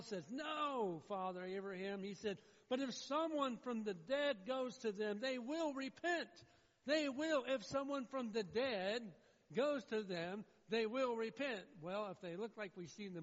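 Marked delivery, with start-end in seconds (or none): 0.3-2.0 preacher imitating an urgent refusal; protesting. Man in hell protests to Abraham. 2.7-11.6 loud, high, slow acted argument; preacher voicing an urgent appeal at full force; insistent pleading. Man in hell argues with Abraham.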